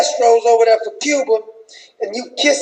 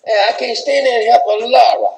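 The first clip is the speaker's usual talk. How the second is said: Michelle with attitude. Retold or imitated. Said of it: "She said".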